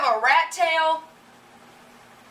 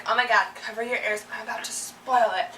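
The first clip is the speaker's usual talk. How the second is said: warning spoiler; 2 semitones lower than usual. Retold or imitated. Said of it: "people who warn first and are like".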